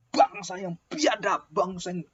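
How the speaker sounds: slow, scornful rebuke; Moses angry. Acted. Moses scolding the rebellious Israelites in anger. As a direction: drag out the insult to the stubborn people. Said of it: "Dan dia marah".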